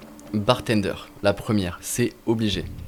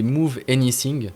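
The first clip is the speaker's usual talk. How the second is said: "Move Anything" said with a light French accent, /muv enisiŋ/; English words in a French mouth; a French speaker reading English; slower than usual. Shown as a demonstration. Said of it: "Pardonnez mon accent anglais".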